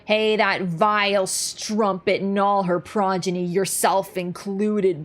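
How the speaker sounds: Grandam grumbling. Retold or imitated. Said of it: "She's like".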